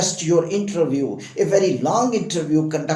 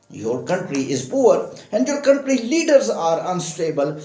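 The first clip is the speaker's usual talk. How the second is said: higher, sing-song reading of an officer's form letter; sarcastic visa officer refusing an Indian student, pitched higher; mock refusal letter; 4 semitones higher than usual. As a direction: rattle it off like a lazy visa officer mocking the applicant. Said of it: "they will just write, copy paste".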